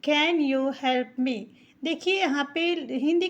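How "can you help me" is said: "Can you help me?" spoken very slowly; slow model question, each word clear; slow teaching read. Shown as a demonstration. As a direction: dictation pace for beginners. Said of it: "तो हम कहेंगे".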